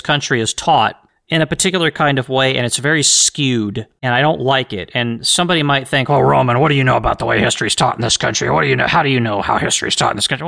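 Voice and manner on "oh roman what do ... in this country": mock skeptic. Imagined critic challenging him.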